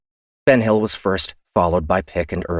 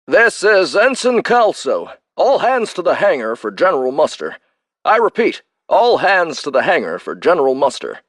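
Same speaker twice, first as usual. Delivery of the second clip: ship announcement; 10 semitones higher, 5 dB louder than usual. Acted. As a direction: read it like a loudspeaker muster call. Shipwide announcement.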